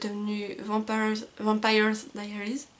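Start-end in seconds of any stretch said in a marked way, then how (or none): 1.4-2.7 slow English-accented title. Real, not acted. Booktuber apologizing for saying the English title with an English accent. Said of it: "excusez mon accent anglais".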